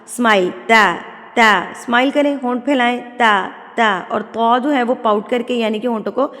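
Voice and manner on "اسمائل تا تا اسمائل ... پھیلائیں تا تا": تا with lips spread in a smile; تا light, lips spread wide. Shown as a demonstration. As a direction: smile and say a thin تا. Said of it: "smile کے ساتھ".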